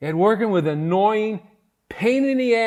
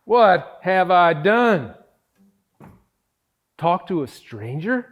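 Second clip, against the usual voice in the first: panicked disbelief; 9 dB louder than usual. Real, not acted. Panicking after the call.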